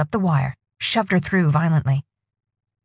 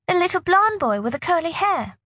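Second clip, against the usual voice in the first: put-on young girl voice; 11 semitones higher than usual. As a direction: speak as a frightened young girl.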